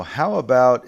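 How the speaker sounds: teacher shows a friendly suggestion; friendly stress. Shown as a demonstration. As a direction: friendly lift on "how". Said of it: "a more friendly way".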